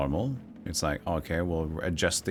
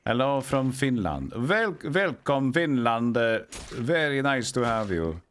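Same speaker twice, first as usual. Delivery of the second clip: high-pitched, hammed-up Finnish accent greeting; mock Finnish accent; 6 semitones higher than usual. Welcoming Finnish viewers in a mock Finnish accent. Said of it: "by putting on a repulsive accent".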